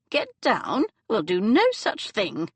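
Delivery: haughty, indignant refusal; a grand lady refusing flatly; a lightly voiced imperious dowager. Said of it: "the Dowager said imperiously".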